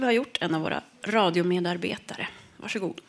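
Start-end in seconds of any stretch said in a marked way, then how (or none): 2.6-3.0 a hushed "go ahead"; whispered handover. Real, not acted. Host handing over to the reader, whispered. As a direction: whisper it as you hand over.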